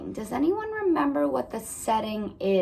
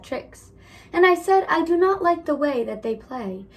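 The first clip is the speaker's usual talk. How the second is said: lively storybook read-aloud; reading to children. A narrator's reading. Teacher reading a picture book to her class, lively.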